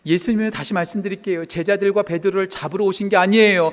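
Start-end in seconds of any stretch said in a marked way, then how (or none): none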